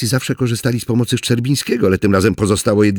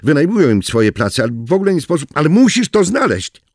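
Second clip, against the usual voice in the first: fast, rising panic, pushing higher and louder; frantic; 3 semitones higher, 4 dB louder than usual. Acted. Kormak frantically searching the map while Oriński presses him, panicked. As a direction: rattle it off in growing alarm.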